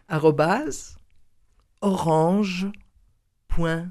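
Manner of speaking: slow, spaced dictation; one piece at a time, with pauses; spelling it out. Shown as a demonstration. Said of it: "je vais vous donner tout de suite le mail". (en dictant lentement)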